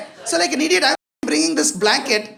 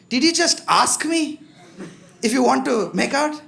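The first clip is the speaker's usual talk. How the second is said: slow, raised-pitch mock indignation; offended; 2 semitones higher than usual. Girl answering his make-out request, offended. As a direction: stretch it out in affronted disbelief. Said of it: "she got offended".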